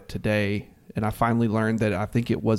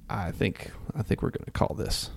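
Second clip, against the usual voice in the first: hushed; 10 dB quieter than usual. Real, not acted. Hushed before calling it.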